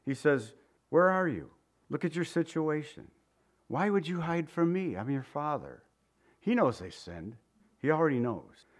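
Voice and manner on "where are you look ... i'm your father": soft, pleading father's call; heartbroken father. Retold or imitated. Preacher voicing God searching for hiding Adam, tender. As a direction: call gently like a father missing his son. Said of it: "the cry of a heartbroken father".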